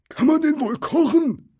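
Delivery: very high, loud troll squawk; eager troll. A narrator's reading. Tom wondering about cooking the captive, high squawk.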